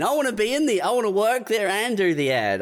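high, eager outburst; giddy enthusiasm; excited gush. Real, not acted. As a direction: burst out wanting it badly. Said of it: "wants to be in ad".

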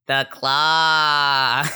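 reverent alien whisper-call to the claw; awed little alien voice; gurgling alien voice. Acted. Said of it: "a clean read from you of you doing the claw in the alien voice".

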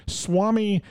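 put-on Indian accent. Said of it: "I don't do an Indian accent".

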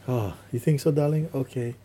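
hammed-up flattered darling; lightly voiced, coy victim; mock flattered victim.

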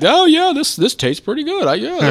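high, loud tipsy put-on voice; high giddy drunk voice; mock tipsy drinker. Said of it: "you know, like".

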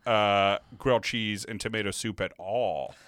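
tongue-in-cheek, overplayed protest; sarcastic. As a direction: lay on the irony, then settle back down. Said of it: "He's being sarcastic, folks".

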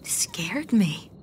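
disbelieving whisper; incredulous whisper. Acted. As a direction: breathe it in disbelief. Georgia incredulous, hushed.

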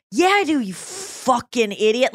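slow, drawn-out mock insult; imitating a friend's harsh comeback; harsh retort. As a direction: lean hard on the swear, drawing it out. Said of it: "like, really harsh thing".

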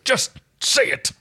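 high, drawn-out plea; beg, stretching each word; pleading. Acted. John begs Erin to repeat the word, pleading. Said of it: "John pleaded".

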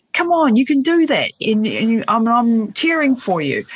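a hint of a mum cheering from the sideline. Mum urging her child on, cheering. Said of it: "the mum that's going".

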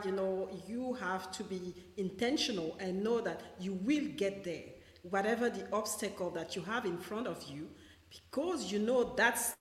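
breaking up on a bad mic; choppy garbled audio; scrambled voice. Real, not acted. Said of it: "your mic is cutting out a little bit".

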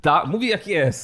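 slow, lightly mimicked pundit catchphrase; Max Kolanko. Host echoing co-host's catchphrase, light mock-pundit impression. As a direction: echo it with measured mock self-assurance. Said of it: "Max Kolanko".

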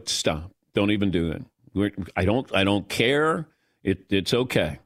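low, tired brush-off; weary dismissal. Retold or imitated. Father tells his mocking kids to stop, low and tired. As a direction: wave the kids off wearily. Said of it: "and I go".

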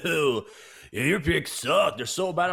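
slow, sneering mock troll whine; a hint of a sneering troll. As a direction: jeer like an internet troll. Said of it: "these trolls that come along and say".

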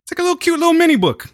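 high, fast cutesy description. Real, not acted. To his cohost, a high cutesy description. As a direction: make the little book sound adorable. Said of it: "I like how you got quiet".

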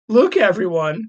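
called out. A narrator's reading. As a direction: grab everyone's attention. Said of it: "cried Loki".

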